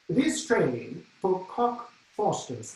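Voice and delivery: slow, measured announcer imitation; lightly voiced English announcer; tube announcer. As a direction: mimic the train's announcement slowly. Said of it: "she keeps announcing".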